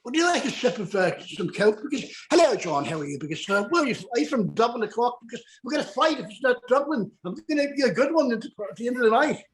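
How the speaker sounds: English accent sliding into Irish; attempted English accent. Shown as a demonstration. Host showing off English accent to co-hosts, Irish-tinged English. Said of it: "my English accent".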